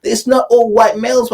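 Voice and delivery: hammed-up mock outrage from white men; mocking whiny complainer. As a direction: whine like an aggrieved commenter. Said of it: "you're gonna find a way of saying".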